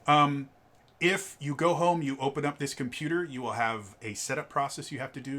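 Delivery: a light touch of an upbeat salesman's patter; sales pitch. Retold or imitated. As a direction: pitch the computer setup like a friendly store clerk. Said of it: "I'm going into my sales pitch".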